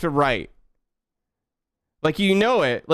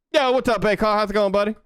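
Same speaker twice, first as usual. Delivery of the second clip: put-on southern accent; 5 semitones higher than usual. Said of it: "I have to speak in a southern accent".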